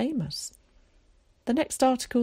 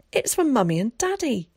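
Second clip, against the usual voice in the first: yelled; 7 semitones higher, 3 dB louder than usual. A narrator's reading. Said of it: "he yelled".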